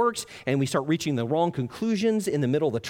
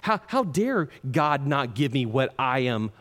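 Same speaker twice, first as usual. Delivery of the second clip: mock indignation; slower than usual. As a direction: act out being mad at God, weighing each word. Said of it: "Then you start getting mad".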